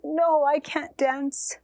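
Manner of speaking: slow, heavy-hearted no; sad refusal. Acted. Mother turns down her children's plea to dance, slow and sad. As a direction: drag it out in grief.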